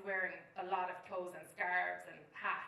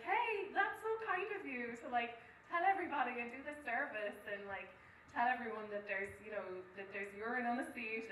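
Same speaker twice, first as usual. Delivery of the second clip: sugary chat. Retold or imitated. Chatting back to the man.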